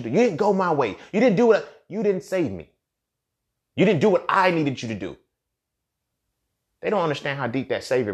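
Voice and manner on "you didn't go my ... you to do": higher, whiny complaint; mock fussing woman. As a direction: whine it like she's scolding him.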